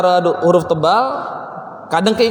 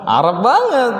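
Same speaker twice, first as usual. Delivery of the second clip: giggling through it; real laughter; laughing; 5 semitones higher than usual. Real, not acted. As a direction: break into laughter. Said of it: "teacher laughing".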